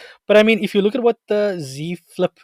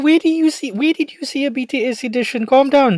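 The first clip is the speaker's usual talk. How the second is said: high, loud incredulous interruption; startled disbelief; 10 semitones higher, 4 dB louder than usual. Real, not acted. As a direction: cut in, halting them in disbelief. Mock-alarmed interruption at surprising news.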